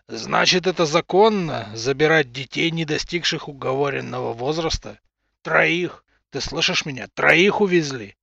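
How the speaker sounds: loud furious accusation; angry shouting. Acted. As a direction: hurl it at him in rage. Father rages at official.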